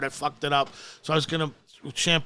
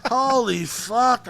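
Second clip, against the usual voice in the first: slow stunned; 6 semitones higher, much slower than usual. Retold or imitated. Stunned realization.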